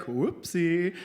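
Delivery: light, offhand little oops; casual oops. Retold or imitated. Doctor shrugging off his spray mistake, casual. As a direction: toss it off as a tiny mishap.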